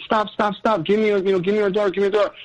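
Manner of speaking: quick-fire retold demand, not shouted; retold urgent plea. Retelling his urgent plea to stop.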